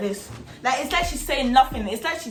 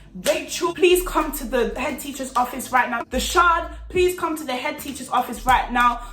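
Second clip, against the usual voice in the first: slightly raised, formal announcer delivery; school tannoy announcement; 2 semitones higher than usual. Retold or imitated. Calling two pupils to the head teacher, announcing. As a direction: imitate an announcement over school speakers. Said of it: "them speaker things".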